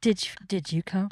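hushed, whispered bedroom aside; whispered mock question. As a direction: whisper it as a comic follow-up. Acted bedroom question after the grunts.

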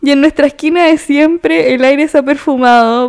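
leer verso a verso, con cadencia; recitado de letra. Shown as a demonstration. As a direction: recitar una canción como poema. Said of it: "yo estoy recitando". (declamación medida, sin cantar)

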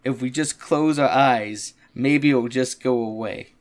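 slow, dopey Patrick. Retold or imitated. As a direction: say it slowly like dim Patrick. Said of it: "Patrick's like".

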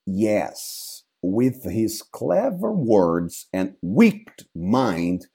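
dead father's ghost, slow and hollow. Acted. Ghost answering Hamlet.

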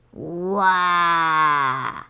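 deep, loud creature roar close by; one long hungry roar right nearby. Acted. Baby antlion roaring right beside them, loud deep roar. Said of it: "zařvalo to už zcela na blízku".

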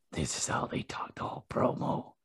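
hushed, breathy mock macho promo voice; lightly done manly promo voice. Shown as a demonstration. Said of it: "in big manly voices".

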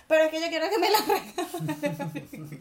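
slow, whining customer, cracking up; whiny customer through laughter. Acted. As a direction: plead like a spoiled customer while laughing. Acting out demanding customer.

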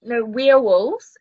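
"werewolves" drawn out slowly, a pun on "we are wolves"; Kiwi werewolves. Shown as a demonstration. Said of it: "in a Kiwi accent".

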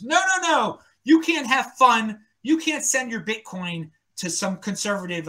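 high shouted mocking nag; hammed-up busybody scolding. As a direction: mimic a preachy scold, shrill and loud. Mocking a puritan senator.

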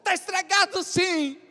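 high, loud and slow insistence; insistent buyer. Retold or imitated. Pastor voicing the suspicious boy insisting the phone is broken.

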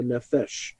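"nephesh" said as Hebrew, NEH-fesh with a soft final sh; Hebrew word. Shown as a demonstration. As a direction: give "nephesh" its Hebrew sound, stress on the first syllable. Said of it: "as we say in Hebrew".

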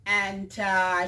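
ordinary talk, nothing marked

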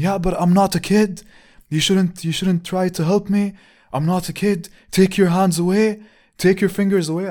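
put-on high, loud, offended old lady voice; a stranger on the street snaps at a man who steadied her, indignant old woman; shrill indignant old woman. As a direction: squeak out her outrage like a cranky granny. Old woman scolding him.

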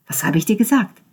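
an I-told-you-so look put into words. A narrator's reading. Ben to Konrad, smug and pointed.

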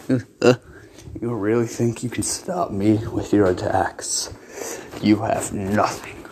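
slow, low whispered villain; whispery Lich voice. Acted. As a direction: breathe it out like an undead king.

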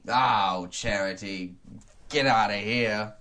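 grumbling miser in a put-on accent; Ebenezer Scrooge. Scrooge dismissing a charity collector, hammy and grumpy. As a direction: send them away as a grumpy miser. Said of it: "I'll be playing the role".

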